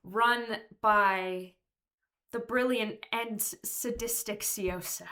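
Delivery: "brilliant and sadistic" set apart by pauses for emphasis; deliberate emphasis. Real, not acted. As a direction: pause after "run by", then weigh out "brilliant and sadistic". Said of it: "because it needs to be emphasized".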